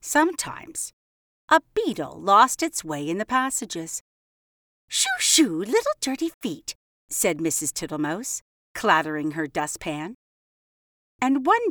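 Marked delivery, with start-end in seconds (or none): 4.9-6.8 fussy mouse voice. Acted. Mrs Tittlemouse shoos a beetle.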